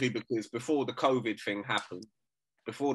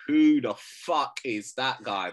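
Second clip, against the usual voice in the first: quoting Conor McGregor; 4 dB louder, slower than usual. Retold or imitated. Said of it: "in the words of Conor McGregor".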